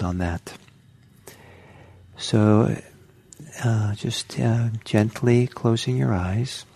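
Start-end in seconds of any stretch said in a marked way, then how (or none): 2.2-6.7 unhurried meditation guidance with long pauses; calm guided-meditation delivery, phrase by phrase. Real, not acted. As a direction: gently guide them into settling, leaving space between phrases.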